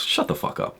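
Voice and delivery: hoarse, scornful whisper; whispered brush-off to the normal crowd; whispered dismissal. Real, not acted. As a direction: hiss it under your breath.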